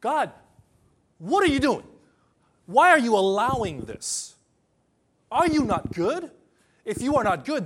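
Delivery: a panicking believer crying out at God; panicked outcry. Retold or imitated. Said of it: "Our panic is saying".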